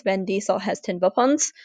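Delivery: lightly put-on German-Russian accent; understated German-Russian accented catchphrase; mixed German-Russian-English accent. Shown as a demonstration. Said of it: "You say it in kind of a mixed German, Russian, English accent".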